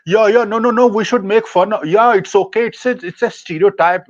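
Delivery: lightly voiced dismissive comedian; mocking the comedian. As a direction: parody his easy going along with it. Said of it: "oh, he said".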